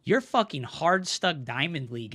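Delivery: ordinary delivery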